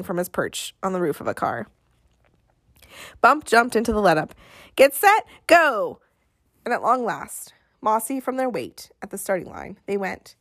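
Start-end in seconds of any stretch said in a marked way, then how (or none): 4.7-6.0 high, loud race start call; the starter finally launching the race, loud and high; starter's shout. Acted. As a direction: fire it off like a starting gun.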